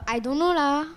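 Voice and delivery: attempted Singlish with a drawn LAH; local Singaporean accent. Shown as a demonstration. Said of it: "can you speak local accent".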